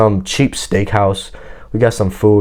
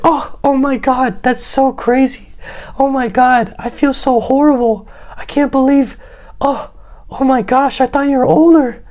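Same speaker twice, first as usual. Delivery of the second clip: acting shocked. Woman learning his age on the phone, mock shocked. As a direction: imitate her overdone shock in a high falsetto. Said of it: "She tried acting shocked".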